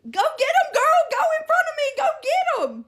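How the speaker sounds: high, loud cheering-on; retold shout urging her to give chase; urgent egging on. Bystander sending woman after a thief, retold urgent shout.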